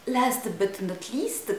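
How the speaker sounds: put-on slow English with a heavy French accent; slow Last but not least in a strong French accent; thick French accent. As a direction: say it slowly in a clumsy French accent. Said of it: "avec mon accent français absolument dégueulasse".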